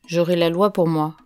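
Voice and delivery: plain reading voice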